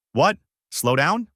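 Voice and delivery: feigned confusion. A narrator's reading. Wife on phone with husband, faking confusion. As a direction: play dumb, sound honestly lost. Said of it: "She sounded perfectly confused".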